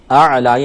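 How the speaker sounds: اعلی starting with a throaty عین; اعلی with a clear guttural عین; with ain. Shown as a demonstration. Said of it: "یہ عین ہے".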